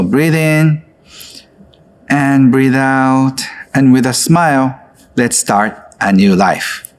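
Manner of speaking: unhurried calming coach voice; guided breathing. Acted. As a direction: ease them gently into the breath. Leads a breathing exercise.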